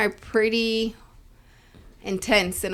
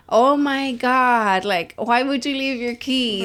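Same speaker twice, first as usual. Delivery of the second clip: drawn-out disbelief; 3 semitones higher, slower than usual. Retold or imitated. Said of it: "I'm like".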